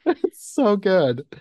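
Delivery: slow, giggling delight; laughing it out. Real, not acted. Laughing about the fake crying.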